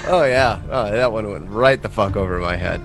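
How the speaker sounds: ordinary talk, nothing marked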